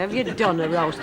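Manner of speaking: "Have you done a roast?" in light Lancashire, stress on "you"; Lancashire speech. Shown as a demonstration. Teller savouring the Lancashire way of speaking. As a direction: repeat the Lancashire phrase fondly. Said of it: "a lovely way to speak Lancashire".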